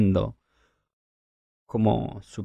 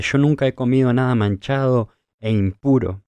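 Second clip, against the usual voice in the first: loud, higher-pitched acted objection; emphatic protest; 4 semitones higher, 8 dB louder than usual. Peter answering the command to eat, loudly protesting. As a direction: declare it forcefully, as Peter objecting.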